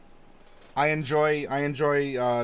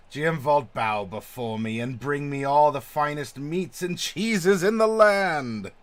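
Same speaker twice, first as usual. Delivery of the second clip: megalomaniac rant; 4 dB louder than usual. Acted. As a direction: command subjects like a greedy overlord. Voicing the megalomaniac new boss.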